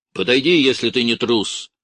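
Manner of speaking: loud taunt; challenging shout. A narrator's reading. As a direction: dare them to come closer. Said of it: "крикнул Бураев кучке".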